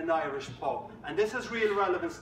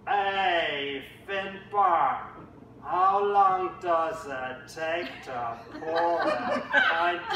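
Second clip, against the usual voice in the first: Jake voice; much slower than usual. Acted. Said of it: "Jake speaks first".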